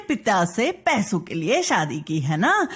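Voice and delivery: scolding stepmother with swooping pitch; angry stepmother. Acted. Stepmother snapping at the girl who called her mother, angry. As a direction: put the child in her place. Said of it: "गुस्से में आ गई".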